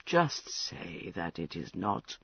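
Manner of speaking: put-on drunken, maudlin confession. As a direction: loose and sorry for himself. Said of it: "Prince, you sound terribly drunk".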